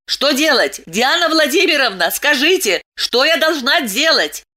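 a neighbour begging for instructions; frantic cry. Acted. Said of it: "закричала".

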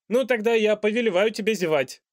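loud, high royal reprimand; a pompous king lecturing on etiquette; stern king. A narrator's reading. King's voice.

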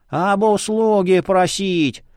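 put-on slow creaky old man voice. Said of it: "проскрипел старик".

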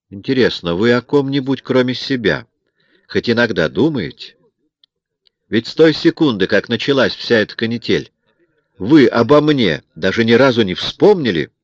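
each word clipped, with open dislike; clipped hostility. A narrator's reading. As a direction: cut her down coldly. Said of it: "отчеканил я, не скрывая неприязни". (он чеканит слова с неприязнью)

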